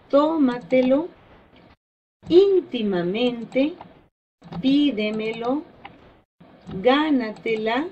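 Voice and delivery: fácilmente, dígamelo, gánatela each leaning on the accented early syllable; stress before antepenultimate syllable. Shown as a demonstration. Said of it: "la mayor fuerza de voz". (fuerza de voz en la sílaba acentuada, como DÍgamelo)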